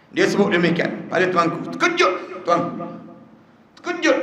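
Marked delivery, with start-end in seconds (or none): 1.7-4.2 high, slowed exclamation of shock. A narrator's reading. Preacher tells congregation the king was stunned, high and shocked. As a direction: tell of the king's shock with a high cry. Narrator describes king's shock.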